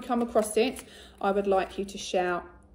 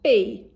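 be said very loud; modelled tricky word; 2 semitones higher, 9 dB louder than usual. Shown as a demonstration. Teacher models be for the children, very loud. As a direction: punch be out loud for the class to copy. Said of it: "My turn".

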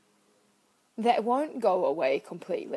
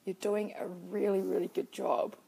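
kind self-talk. Retold or imitated. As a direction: comfort yourself gently. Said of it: "speaking to myself really kindly".

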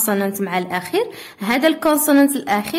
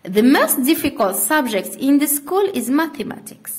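slow dictation; slower than usual. Shown as a demonstration.

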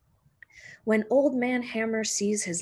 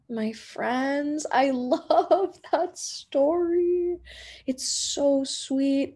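slow, higher, laughing delight; laughing fondly; 6 semitones higher, slower than usual. Real, not acted. The reader to her friends after the book, laughing fondly. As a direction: gush about the story with a laugh.

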